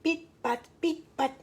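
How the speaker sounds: soft, separated little steps; hushed and spaced, like tiptoeing; creeping footsteps. A narrator's reading. Storyteller signals someone nearing the henhouse, hushed and stealthy.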